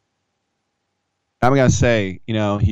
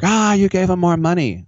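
higher, louder whiny cry; mock anguished fan; 9 semitones higher, 4 dB louder than usual. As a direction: wail like a betrayed fan. Heckler's dismay, mocked.

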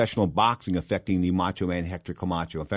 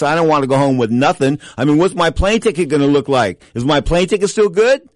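agitated; 6 semitones higher, 7 dB louder than usual. Real, not acted. Worrying about not getting paid.

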